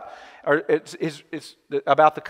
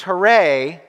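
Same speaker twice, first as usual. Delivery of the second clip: crowd cheer; 3 semitones higher, 6 dB louder than usual. Retold or imitated. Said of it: "everyone screams".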